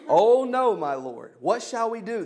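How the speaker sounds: alarmed cry on "oh no", then rushed and pleading; frightened servant. A narrator's reading. Servant panics at the army surrounding the city, high alarmed cry. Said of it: "the servant asked".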